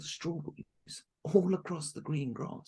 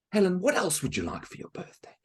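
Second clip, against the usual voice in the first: stepmother asking; 4 semitones higher, 5 dB louder than usual. Acted. Stepmother asks Helen, whispered.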